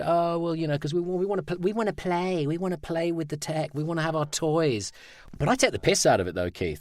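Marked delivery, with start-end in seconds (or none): 0.0-4.9 high-pitched mock-childish whining for toys; childish client. Voice actor mocking tech-keen clients, childish high voice. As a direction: mimic the bosses like eager little kids.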